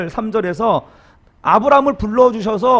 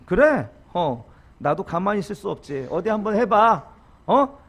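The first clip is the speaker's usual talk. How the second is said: mock retort; 3 semitones higher than usual. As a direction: fire back at the parent, hammed up. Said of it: "이렇게 맞불 붙이는 거". (과장된 맞불 대꾸)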